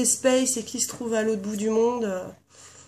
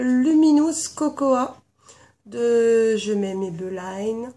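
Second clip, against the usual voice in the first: English accent; 5 dB louder, slower than usual. Real, not acted. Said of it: "mon accent anglais, ma voix cassée".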